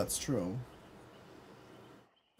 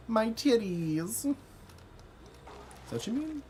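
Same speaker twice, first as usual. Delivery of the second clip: incredulous repeat; 11 semitones higher than usual. Real, not acted. Reading a chat claim, mock-outraged and incredulous. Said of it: "What do you mean?".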